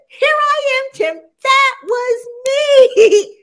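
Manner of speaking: high, loud breathless gush; mock post-race gush with a laugh; excited interview gush. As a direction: gush like a giddy young athlete.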